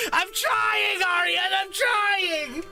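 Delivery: laughing protest to chat; exasperated shout. Real, not acted. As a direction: beg them to let you try. Pleading with chat while laughing.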